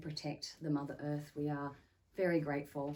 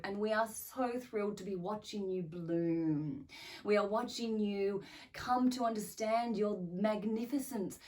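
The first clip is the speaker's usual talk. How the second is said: channelled spirit beings. Acted. Spirit beings address humans through a medium, in an elated channelled voice. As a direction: speak as thrilled otherworldly guides, stretching the important words. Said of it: "are willing to speak through me".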